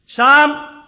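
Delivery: high, loud shout out the window; wife shouting next door for the neighbour; shouted name. Retold or imitated. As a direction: yell the neighbour's name across the gap. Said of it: "stuck her head out and shouted".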